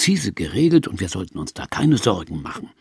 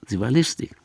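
whispered aside, sly; sly whispered repeat; 3 dB quieter, faster than usual. Shown as a demonstration. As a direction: whisper it like a secret.

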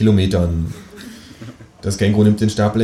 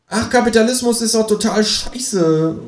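high, slow kangaroo outburst; much higher kangaroo rant; 14 semitones higher, slower than usual. Acted. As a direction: fling it out like an angry kangaroo. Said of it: "ruft das Känguru".

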